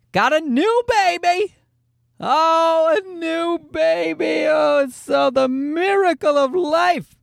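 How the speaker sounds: high, slow hammed-up Irish leprechaun; over the top Irish accent. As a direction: lay the Irish brogue on thick, slowly. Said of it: "Your nasally leprechaun voice".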